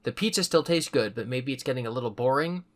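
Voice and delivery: even storybook reading voice; steady read-aloud narration; story narration. A narrator's reading. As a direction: read the book to listeners. Reading a choose-your-own story aloud.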